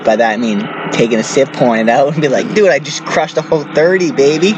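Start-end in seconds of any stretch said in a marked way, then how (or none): 2.5-4.5 higher, hammed-up frat bro boast; mock bro brag. Friend mocking his buddy's fake chugging, bro brag voice. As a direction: pump it up like a bro bragging about beers.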